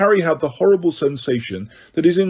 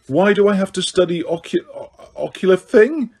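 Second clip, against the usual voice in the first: higher, hasty outburst; blurted; 6 semitones higher than usual. A narrator's reading. Harry blurting out his alarm at Snape, high. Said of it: "he blurted out".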